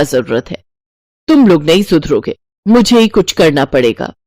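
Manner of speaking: put-on firm old miser raising her voice; stingy mother-in-law, insisting. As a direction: overrule the family about the fan. Santosh insists, annoyed.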